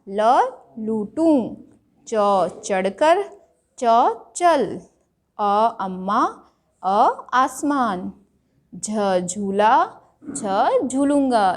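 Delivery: slow, drawn-out letter then word. Shown as a demonstration. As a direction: spell each letter slowly for children. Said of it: "तो बच्चों ल लगा". (धीरे-धीरे अक्षर और शब्द)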